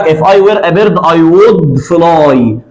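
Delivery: If I were a bird I would fly, word by word, very slow; slow example. Shown as a demonstration. Teacher dictating the example sentence slowly. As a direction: spell the sentence out slowly for the class. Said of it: "مع حالة إف التانية في الخيال بناخد وير".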